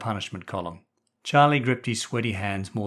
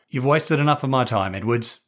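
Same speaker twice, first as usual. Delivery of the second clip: brisk; 3 semitones higher, 5 dB louder than usual. Acted. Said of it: "Hamilton said briskly".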